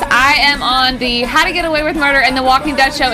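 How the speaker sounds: crying. Real, not acted. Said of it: "apparently I'm a child and can't stop crying".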